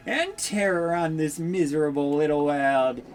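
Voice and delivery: slow, menacing villain proclaiming doom; villain Dark Lord voice. Acted. Dark lord threatening the townsfolk, slow menacing gloat.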